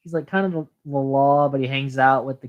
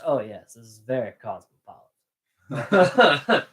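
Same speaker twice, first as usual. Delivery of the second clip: laughing quote; 3 semitones lower, slower than usual. Retold or imitated. Quoting Doc's dry quip.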